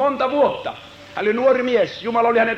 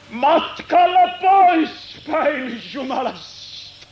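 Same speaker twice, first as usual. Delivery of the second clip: rising lament; slower than usual. Acted. Prophet grieving for his people, rising then fading lament. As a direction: plead for the lost people.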